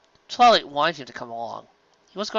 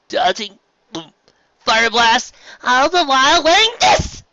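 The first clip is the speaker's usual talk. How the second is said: put-on higher, louder indignant kid voice; louder, raised indignant protest; indignant Spike; 11 semitones higher, 8 dB louder than usual. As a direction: refuse it loudly like a young dragon.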